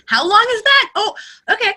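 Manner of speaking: imitating surprise; mock surprise. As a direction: caught off guard mid-sentence. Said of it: "you'll hear us go".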